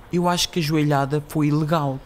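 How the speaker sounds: cute, gently put-on old-woman voice; cute little old lady. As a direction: play a dainty elderly lady giving an opinion. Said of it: "com uma voz fofinha".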